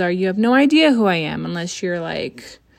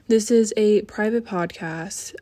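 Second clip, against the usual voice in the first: talking out a lungful of smoke; exhaling smoke. Real, not acted. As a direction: say it while breathing out smoke. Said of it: "Hold on, let me take a hit".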